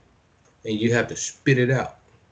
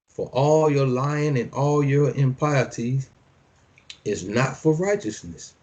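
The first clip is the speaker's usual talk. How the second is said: measured preacher's reading; scripture reading; 3 semitones higher than usual. Acted. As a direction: declaim each line like a decree. Reads scripture aloud.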